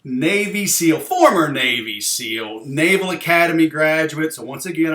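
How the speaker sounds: slow, emphatic introduction; measured, drawn-out words with teasing emphasis; deliberately slow. Pretend. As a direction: spell it out slowly for a slow listener. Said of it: "I have to talk very slowly".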